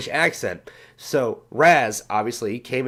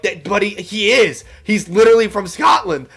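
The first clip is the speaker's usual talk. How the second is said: indignant retort; 7 semitones higher, 6 dB louder than usual. Retold or imitated. Retorting indignantly in retold story.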